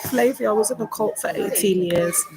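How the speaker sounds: tearful, voice catching as she speaks; crying while telling a supporter; real crying. Real, not acted. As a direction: say it through real tears. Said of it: "I'm just feeling a bit overwhelmed".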